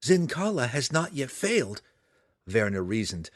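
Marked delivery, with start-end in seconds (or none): 0.0-1.8 higher-pitched, gently reasoning reassurance; consoling. A narrator's reading. Daughter trying to console her excited mother, high consoling tone. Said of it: "trying to console her excited mother".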